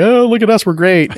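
high, gushing self-congratulation; hammed-up boast, pitched well up; mock arrogance. Parents imagined bragging about their parenting, mock arrogance. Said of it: "we don't get arrogant and say".

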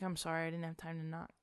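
badly faked Maryland accent; shitty Maryland accent. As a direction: apologise in a rough attempt at Maryland accent. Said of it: "he's in his shitty Maryland accent".

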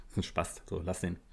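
hushed, breathy aside telling him to drop it; quietly urging a friend to walk away; retold whisper. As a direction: whisper it so the guy can't hear. Friend hissing advice about the guy.

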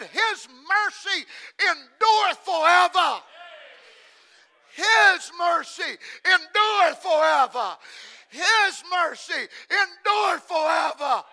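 loud repeated proclamation; shouted scripture refrain; preaching shout. Real, not acted. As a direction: ring out each repeat.

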